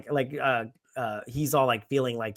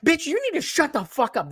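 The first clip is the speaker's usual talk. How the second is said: mock scold; 12 semitones higher than usual. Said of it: "And I'm like".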